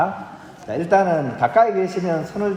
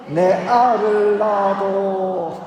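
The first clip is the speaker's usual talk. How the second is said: high, very drawn-out Gyeongsang dialect; 6 semitones higher, 3 dB louder, much slower than usual. Shown as a demonstration. Leading the congregation in a man's confession, Gyeongsang dialect. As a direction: declare it boldly, stretching the Gyeongsang dialect. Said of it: "경상도 말로는 "사랑합니다"를".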